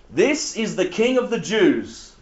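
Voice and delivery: slow, spaced-out reading; measured, deliberate proclamation; proclaimed notice. Acted. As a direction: read the sign out slowly and grandly. Reading the written notice aloud.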